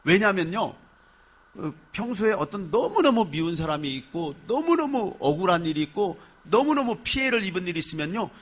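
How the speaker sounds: normal talking voice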